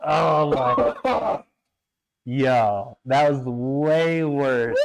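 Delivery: strained, burning nose; eyes watering, reeling; after smelling salts. Real, not acted. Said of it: "Your eyes are watering".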